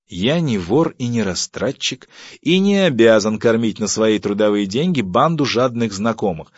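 husband refusing to feed guests; indignant refusal. Acted. (негодующая отповедь)

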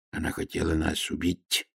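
глухо, тише обычного, мрачно; буркнуть мрачно в ответ; угрюмо. A narrator's reading. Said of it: "сказал он угрюмо". (угрюмый ответ слуги)

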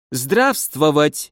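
put-on slow, heavy German accent on the greeting. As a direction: say it like a German who barely knows Russian. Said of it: "с сильным акцентом".

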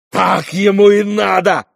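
loud, high, gasping cry; out of breath, spit it out; breathless exclamation. A narrator's reading. Dmitri crying out breathless after the fight, loud and high. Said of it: "задыхаясь, воскликнул Дмитрий".

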